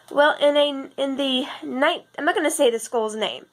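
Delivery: raspy just-woke-up voice; scratchy, just out of bed; morning voice. Real, not acted. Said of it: "I feel like my voice is, like, really scra".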